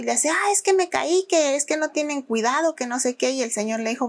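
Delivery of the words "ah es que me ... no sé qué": whiny complaint. Retold or imitated. Fake victim complaining to manager.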